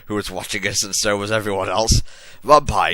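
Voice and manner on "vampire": hammy stage actor. Acted. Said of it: "I said, slapping him".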